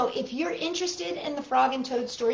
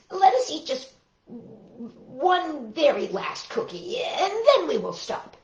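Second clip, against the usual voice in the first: pleading Toad; 6 semitones higher, slower than usual. Acted. Toad begs for one more.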